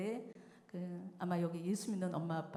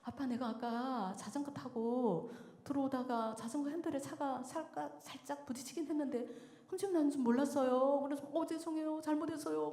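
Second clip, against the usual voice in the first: put-on high, pleading child's whine; imitated tearful confession; 5 semitones higher than usual. Son confesses to dad about the bike, imitated crying. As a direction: act a frightened boy apologising through mock tears. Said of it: "막 울면서".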